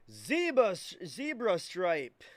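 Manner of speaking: loud excited callout. Real, not acted. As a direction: call out the find with excitement. Big card pulled in break.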